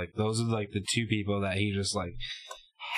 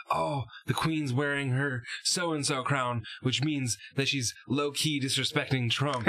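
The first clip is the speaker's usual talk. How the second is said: higher, drawn-out imitation of excited liberals; put-on gossipy awe, mocking; mock gushing; 5 semitones higher than usual. Imitating people reading into the Queen's crown, mock gushing.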